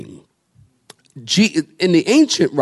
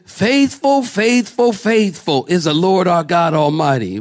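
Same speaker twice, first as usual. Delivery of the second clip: mock seraph's proclamation; imitated crying out; 3 semitones higher than usual. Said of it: "One cried out to another".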